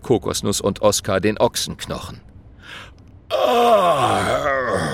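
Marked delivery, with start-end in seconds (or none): 3.3-4.9 loud sore groan, jaw aching; pained groan. A narrator's reading. Dragon groans as his sore jaw is freed. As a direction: groan as the bone comes out. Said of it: "stöhnt Herbert".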